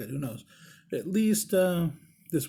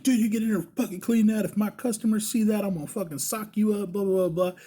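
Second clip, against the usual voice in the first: raised-pitch mock threat; put-on scolding, higher than usual; pretend angry boss; 7 semitones higher than usual. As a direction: order them around in fake outrage. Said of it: "I'm going with it".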